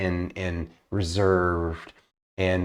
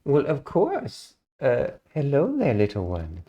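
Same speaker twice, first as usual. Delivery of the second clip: put-on higher, sweet, reserved young elf; elf ranger voice; 6 semitones higher than usual. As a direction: speak as a sweet shy elven ranger, a little higher. Elf ranger greets the creature.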